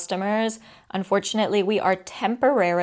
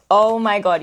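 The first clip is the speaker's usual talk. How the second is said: excited; 7 dB louder than usual. Real, not acted. Lining up the plushies.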